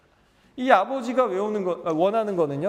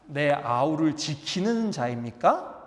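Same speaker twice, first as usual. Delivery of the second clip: defiant retort; 4 semitones lower, slower than usual. Retold or imitated. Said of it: "뭐라고 얘기하는지 아세요?".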